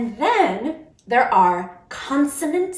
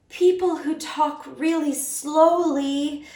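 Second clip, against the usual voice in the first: slow talk; 4 semitones higher, slower than usual. Shown as a demonstration.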